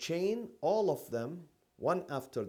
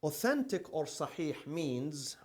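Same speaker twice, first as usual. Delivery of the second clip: measured, drawn-out delivery of a definition; slow dictation. Shown as a demonstration. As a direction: dictate slowly for note-takers. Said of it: "say it very slowly".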